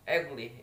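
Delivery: "ugly" leaning on the first syllable; first-syllable stress. Shown as a demonstration. Student repeating "ugly" to show first-syllable stress. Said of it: "syllable stress in the first".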